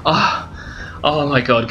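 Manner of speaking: breathless gasp then oh my god; stunned gasp. Real, not acted. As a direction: gasp in disbelief. Reacts to winning cap.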